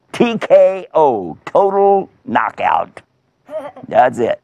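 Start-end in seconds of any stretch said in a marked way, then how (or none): 0.1-3.0 slow, high, emphatic announcement; triumphant, slowly spaced call; ringside knockout call. Acted. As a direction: draw out each word like a fight announcer.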